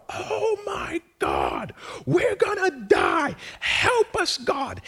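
high, shouted cries of terror; panicked scream. Retold or imitated. Israelites crying out to God in terror, high panicked shouting. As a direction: scream it out like people sure they are about to die. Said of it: "they start to scream out loud".

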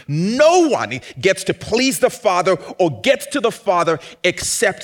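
loud, high, driving sermon voice; full-force preaching. Acted. Pastor proclaiming to the congregation, loud and fervent. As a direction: preach it out with rising fire.

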